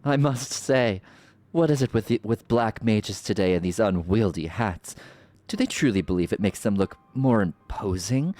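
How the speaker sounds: regal, mocking sorceress voice; theatrical sorceress villain. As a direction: purr the lines like a smug villain. Voicing villain sorceress dialogue.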